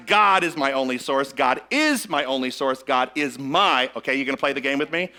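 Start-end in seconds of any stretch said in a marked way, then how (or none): 0.1-1.3 light stress on "God" at the start. Shown as a demonstration. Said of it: "so we emphasize". 1.3-2.8 "is" stressed, rest of the line lower. Shown as a demonstration. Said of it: "emphasize a different word". 2.8-3.9 "my" drawn out and stressed. Shown as a demonstration. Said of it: "emphasize a different word".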